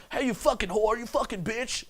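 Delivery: high-pitched parody of a tactless guy; mock clueless insult. Coach imitating guys who come over and insult girls, mock clueless voice. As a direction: toss the insults out in a silly high voice.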